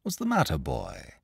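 soft, concerned question; tender concern for a child; kindly inquiry. A narrator's reading. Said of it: "he inquired kindly".

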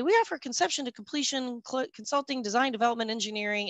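mock corporate jargon. Shown as a demonstration. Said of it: "that kind of blah, blah, blah".

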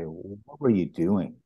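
slow, controlled retold scolding; reproach without yelling. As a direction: draw the question out without raising your voice. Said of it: "I don't yell at people".

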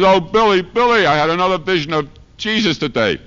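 wife's voice. Retold or imitated.

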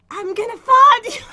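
put-on loud, laughing stab at an Irish accent; attempted Irish accent. Put on the spot by partner, botched Irish accent. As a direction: try an Irish accent and crack up. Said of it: "Pretend you're Irish and say".

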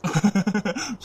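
brief indulgent laugh; soft chuckle. Acted. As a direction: chuckle before soothing her. Brother comforts crying sister.

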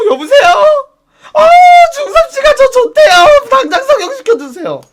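loud, high urgent phone plea; frantic pretend call. Pretend phone call to the plastic surgery clinic, frantically urgent. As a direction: beg the clinic to operate now.

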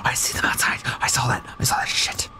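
hushed, frightened whisper; scared whisper. Real, not acted. Player hiding from the intruder, scared whisper. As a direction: whisper so the intruder can't hear.

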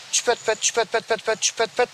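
lightly chirped bird syllables; goldfinch call demo. Shown as a demonstration. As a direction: imitate a chick-feeding call, syllable by syllable. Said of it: "namesiyle çağırır". (saka kuşu çağrısı taklidi)

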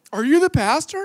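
yelled high and loud across the aisle; retold yell across a plane. Stranger on a plane shouts his question to the pastor, loud. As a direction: call it out loud from three rows back. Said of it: "he has to yell at the top of his lungs".

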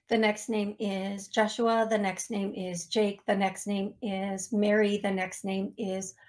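mechanical roll-call of names; like a robot. Real, not acted. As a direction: read the list evenly, without reacting. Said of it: "saying the names like a robot".

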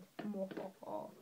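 low, soft "mwa-ha-ha"; smug mock chuckle. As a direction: chuckle softly and low, putting it on. Mock laugh after translation remark.

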